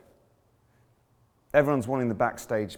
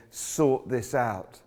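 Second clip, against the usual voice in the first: yelling thief; 5 semitones higher than usual. Retold or imitated. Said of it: "one is yelling at Jesus".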